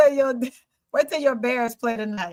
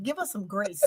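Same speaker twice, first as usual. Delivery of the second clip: a hushed, much softer imitation; like Angel; 3 semitones lower, 11 dB quieter than usual. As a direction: drop the voice low to imitate the friend. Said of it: "I'm gonna talk like Angel".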